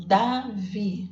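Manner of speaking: Davi said slowly, split into DA and VI; slow syllables. Shown as a demonstration. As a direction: stretch Davi into its two syllables for the children. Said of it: "quantos pedacinhos saíram da boca?". (Davi dito devagar, sílaba por sílaba)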